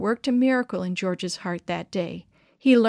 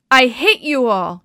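loud, slow furious shout; angry shout; 4 semitones higher, 9 dB louder than usual. A narrator's reading. Humiliated boy shouting hate at the campers. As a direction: spit it out with hurt pride. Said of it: "he shouted".

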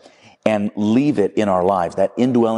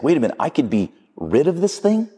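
higher-pitched, excited disbelief rising into a question; elated; 7 semitones higher than usual. Acted. Man to angel who can kill his lizard, elated. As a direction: act out a man suddenly thrilled at the offer. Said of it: "like, elated. He's excited".

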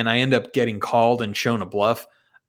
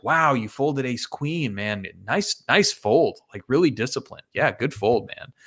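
outward praise. Retold or imitated. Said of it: "But on the outside".

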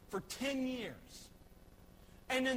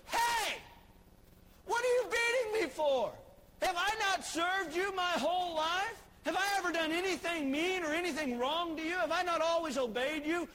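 much higher, louder protesting donkey voice; talking donkey; 7 semitones higher, 4 dB louder than usual. Retold or imitated. Donkey protests being beaten by Balaam, high indignant. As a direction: whine like a wronged animal. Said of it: "and the donkey goes".

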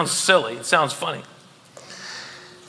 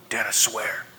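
mock kid's plea; 9 semitones lower, 8 dB quieter than usual. Kid swearing to dad.

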